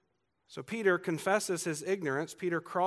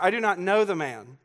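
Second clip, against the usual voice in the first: loud, higher, forceful oath; intense sworn denial; 4 semitones higher, 7 dB louder than usual. Retold or imitated. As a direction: swear it with full insistence. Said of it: "this time it's more intense".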